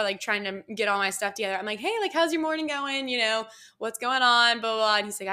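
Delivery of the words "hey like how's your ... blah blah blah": higher, chatty hello; friendly greeting. Retold or imitated. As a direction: greet a stranger like an easy pal. Retells her friendly airport greeting.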